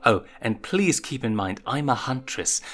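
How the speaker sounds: slow, deliberate firm warning; stern scolding. Acted. Huntress scolding the sneaking prince, slow and firm. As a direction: lay down the rule slowly.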